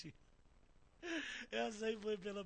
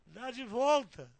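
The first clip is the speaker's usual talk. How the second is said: loud, slow retold command; shouted order; 3 semitones higher, 14 dB louder, much slower than usual. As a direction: bellow it slowly, stretching the words. Acted order to driver, repeated.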